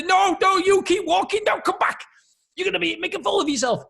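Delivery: panicked squeaky voice. Retold or imitated. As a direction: squeal in alarm at yourself. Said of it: "All it's thinking is".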